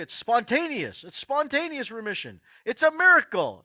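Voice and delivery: doctors' line mimicked, rising to a high loud "miracle"; mocking doctors. Mocking what doctors tell patients about recovery, high and loud at the end. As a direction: mimic the doctors, climbing to a scoffing peak. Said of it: "a lot of doctors say".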